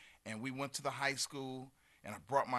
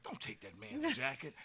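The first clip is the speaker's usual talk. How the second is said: lightly voiced sister, higher pitched; scolding sister; 9 semitones higher than usual. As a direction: imitate a sister's objection in a higher voice. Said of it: "my sister's like".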